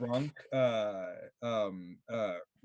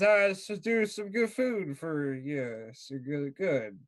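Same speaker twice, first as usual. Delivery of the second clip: put-on goofy drunk voice. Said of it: "he goes".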